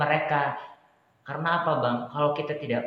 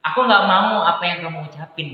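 higher, louder mock protest; retold tearful insecurity; 7 semitones higher, 10 dB louder than usual. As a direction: imitate an insecure, upset refusal. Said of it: "yang minder nangis".

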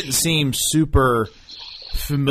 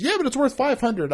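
higher imitated mom voice; 13 semitones higher than usual. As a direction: pitch it up like mom. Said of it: "She goes".

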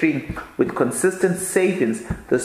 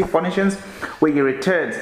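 normal talking voice

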